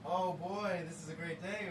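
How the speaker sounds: cheerful oh. Shown as a demonstration. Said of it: "Oh, as in".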